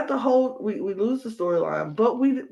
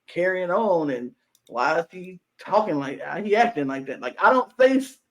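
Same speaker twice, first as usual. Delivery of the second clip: playing dumb. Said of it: "he was playing dumb".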